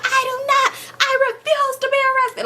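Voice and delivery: high squeaky mock voice refusing; mock refusal. Mama refusing arrest to police, high mock squeal. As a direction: squeak out the protest in caricature. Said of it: "she's going crazy".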